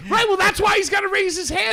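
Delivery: loud, very high-pitched retort; exasperated shout. Real, not acted. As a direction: yell the obvious back at him.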